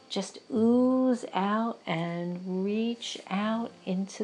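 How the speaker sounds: unhurried meditation leader, words stretched out; guided breathing meditation. Real, not acted. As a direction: guide them gently through each breath.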